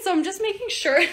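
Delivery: high, put-on presenter line; playfully staged, lifted pitch; posed for thumbnail. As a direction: hold a pose and say it high. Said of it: "that was for a thumbnail".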